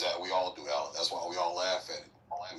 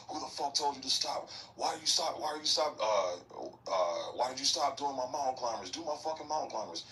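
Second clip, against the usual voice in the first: drill instructor yelling; 7 semitones higher than usual. Retold or imitated. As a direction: bark it out like an angry drill sergeant, pitched up. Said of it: "the drill instructor was like".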